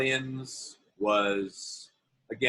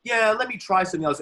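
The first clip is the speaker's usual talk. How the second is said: much higher and louder, quick and snotty; entitled actor; 11 semitones higher, 6 dB louder, faster than usual. Retold or imitated. Self-important actor demanding another take from Scorsese, loud and snotty. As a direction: sneer it like a spoiled star. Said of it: "could have been a real dick and go".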